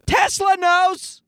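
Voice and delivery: slow, high eerie aside; hammed-up conspiracy whisper of a line; mock ominous. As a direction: drop it like a spooky secret.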